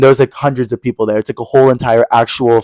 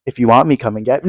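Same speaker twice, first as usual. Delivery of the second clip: seductive; 3 semitones lower, 6 dB quieter than usual. Pretend. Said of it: "I'm like".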